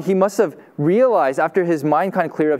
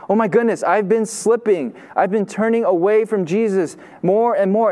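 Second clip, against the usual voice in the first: a startled inner voice, pitched higher; sudden realization; 4 semitones higher than usual. Retold or imitated. Peter waking from spiritual slumber, suddenly alarmed. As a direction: snap awake to your own slipping. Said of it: "suddenly remember that".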